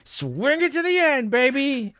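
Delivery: high, drawn-out sing-song. Pretend. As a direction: stretch it up high and showy. Repeats his line, then more showily.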